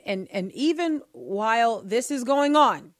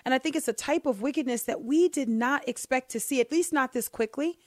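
higher-pitched, earnest insistence; earnestly dramatic; 4 semitones higher than usual. Real, not acted. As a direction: press the point gravely, pitched up. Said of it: "I'm not trying to sound dramatic here".

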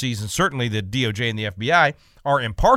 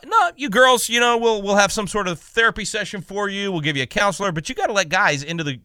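higher-pitched mock school official, easing down; mock placating; 6 semitones higher than usual. School district answering the girls, in mock placating tones. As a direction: lightly mimic an official brushing off a complaint.

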